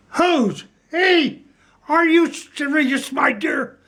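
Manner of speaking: high, disbelieving cry of who's he; stunned that she has never heard of him; mock outrage, pitched well up; incredulous outburst. The speaker raving in disbelief.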